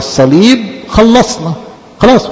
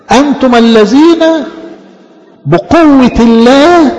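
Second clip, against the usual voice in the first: proclaiming; 7 semitones higher, slower than usual. Real, not acted. Preacher proclaims the verse.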